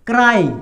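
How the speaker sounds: क्राई said as "krai", falling; pronunciation demo. Shown as a demonstration. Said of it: "तो इसको क्या पढ़ेंगे?". (क्राई का उच्चारण "क्राई")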